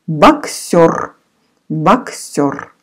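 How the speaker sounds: боксер said slowly, syllable by syllable, for learners; боксер spoken as a clear model word for students to repeat; Russian word model. Shown as a demonstration. Teacher modelling боксер for the class, spoken clearly. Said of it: "O is stressed, so you say O".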